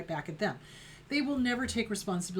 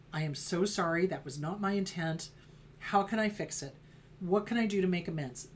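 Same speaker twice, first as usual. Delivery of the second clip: heartfelt mortified apology; sincere remorse; 2 semitones lower than usual. Retold or imitated. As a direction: own it and mean it. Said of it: "An apology is you own it".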